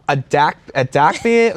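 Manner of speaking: slow Boston "dark beer", R's dropped; dad's Boston accent. Retold or imitated. Dad trying to order at a bar, Boston accent. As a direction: imitate dad slowly repeating himself in Boston accent. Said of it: "He's like".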